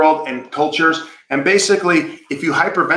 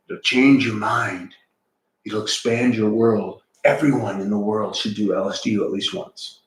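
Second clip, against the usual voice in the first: crazy boss; 5 semitones lower than usual. Retold or imitated. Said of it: "he's all like".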